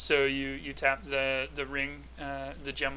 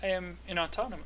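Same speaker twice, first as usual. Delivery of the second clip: automaton voice; 4 semitones higher than usual. Acted. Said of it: "talking in the automaton voice".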